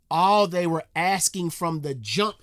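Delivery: loud frustrated emphasis; emphatic. Real, not acted. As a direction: lean on it hard, frustrated. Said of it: "That's what I'm saying".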